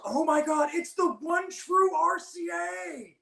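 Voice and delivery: high, slow laughing cry; mock awe. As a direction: hail him in mock worship, laughing. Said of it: "he goes".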